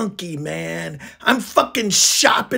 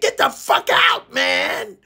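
angry dismissal; 2 semitones higher than usual. Retold or imitated. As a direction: throw them out, voice jumping up. Acted throwing out of the singer.

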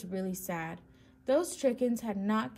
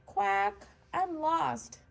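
high, plaintive little duckling; small sad voice; 8 semitones higher, much slower than usual. A narrator's reading. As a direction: quack pitifully like a lost child. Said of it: "sad voice".

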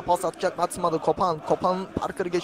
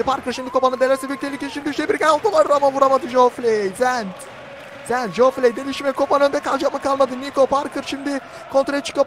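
raised, urgent match commentary; animated running commentary, higher voice; excited play-by-play; 5 semitones higher than usual. Real, not acted. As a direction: keep the pitch up as the attack builds. Danger near goal in live commentary.

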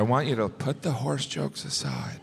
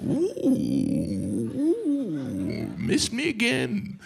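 taunting bullfighter; 4 semitones higher, much slower than usual. Pretend. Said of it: "It's like".

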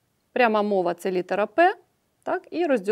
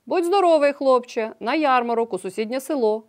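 cheerful reply; 3 semitones higher than usual. Acted. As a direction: greet the boy brightly, then settle. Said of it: "весело відповіли йому".

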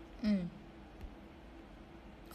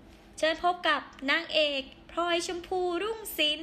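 a touch of a stage announcer's call, lifted and proud; imitating the stage announcer introducing her as the heroine; likay announcer; 5 semitones higher, 3 dB louder than usual. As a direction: present the leading lady like a likay emcee. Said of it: "เขาก็จะประกาศว่าแบบ".

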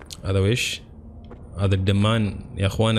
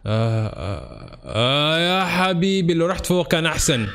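whiny complaint; 6 semitones higher, slower than usual. Real, not acted. Groaning and whining at screaming enemy.

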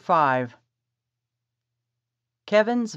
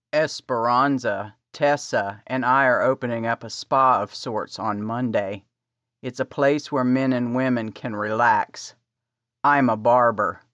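deeper, calm man's voice; low male voice; 5 semitones lower than usual. Acted. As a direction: voice Kevin low and easy. Kevin voiced by narrator.

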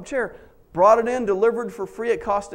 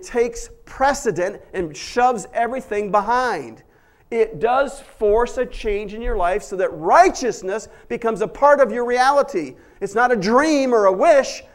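louder, pressing pulpit delivery; preaching at full force; 4 semitones higher, 7 dB louder than usual. Acted. Pastor pressing grace on the congregation, preaching at full force. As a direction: drive the point home with force.

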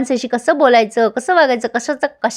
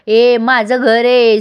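slow, drawn-out mock quarrel; lightly acted, indignant retort; quarrelsome claim; 3 dB louder, much slower than usual. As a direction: stretch it out like a squabbler staking a claim. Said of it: "कडकड भांडायला लागतात".

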